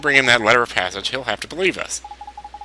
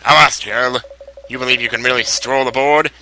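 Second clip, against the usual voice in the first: hint of a pirate captain; 3 dB louder than usual. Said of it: "I can't do the pirate thing".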